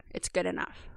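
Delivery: half-whispered shrug, letting yourself off the hook; soft, breathy self-excuse; dismissive excuse. Retold or imitated. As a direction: mutter it like a lazy excuse to yourself. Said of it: "something I caught myself doing is".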